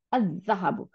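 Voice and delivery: "আজ জাহাবু" with the lam merged into a long Z; doubled Z. Shown as a demonstration. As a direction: hold the Z in "আজ জাহাবু", no L sound. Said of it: "যা দুইটা বানাই দিছে".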